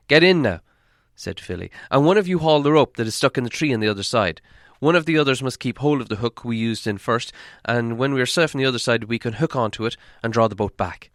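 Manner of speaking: put-on loud, clear young dwarf; young dwarf instructing. Young dwarf directing the crossing, loud and clear. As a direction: lay out the plan briskly.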